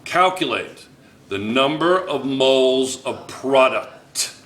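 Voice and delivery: slow, with a pause after "Calculate"; "Calculate", pause, then the rest drawn out; deliberate repeat. Shown as a demonstration. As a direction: spell out the instruction slowly for the class. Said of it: "Let me say that again".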